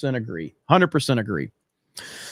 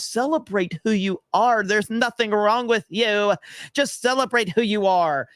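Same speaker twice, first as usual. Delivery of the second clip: higher, mock-sweet encouragement; mock cheerful preaching; 5 semitones higher than usual. Streamer mocks online messages to young people, higher and mock-sweet. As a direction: parrot the slogan in a syrupy tone. Mocking social media messaging.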